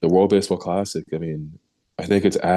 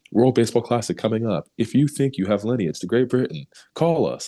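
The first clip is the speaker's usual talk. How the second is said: lightly hammed-up ad voice, rising higher to the end; mock flyer announcement; 5 semitones higher than usual. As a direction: read it like a cheesy recruiting ad. Reading the flyer aloud.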